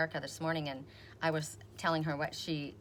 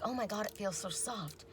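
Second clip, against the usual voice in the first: awed hush; 3 semitones higher, 7 dB quieter than usual. Retold or imitated. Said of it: "I was like".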